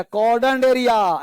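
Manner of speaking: कॉर्डन एरिया drawn out slowly, each syllable clear; slow memory hook. Shown as a demonstration. Teacher giving the class a memory trick, said slowly. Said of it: "ऐसे याद कर लो".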